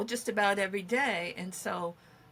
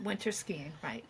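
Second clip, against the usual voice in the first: whisper; 3 semitones lower, 10 dB quieter than usual. Real, not acted. Whispered echo of partner.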